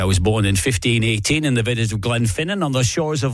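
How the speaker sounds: lightly put-on Scottish accent, Connery style; a modest Scottish accent in the Highlander quote; Sean Connery Scottish accent. DJ apologetically doing the film quote in a mild Scottish accent. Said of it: "try it with a north of the border accent".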